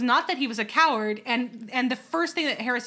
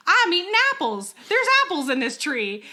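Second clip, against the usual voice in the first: lamb voice; 7 semitones higher, 4 dB louder than usual. Retold or imitated. Voicing the lamb in the tree.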